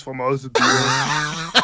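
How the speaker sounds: put-on thick Germanic action-hero accent; put-on Oktoberfest accent. Co-host claiming no voice changer, put-on Germanic accent. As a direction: speak heavy, deliberate Germanic English. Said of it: "you start talking like this".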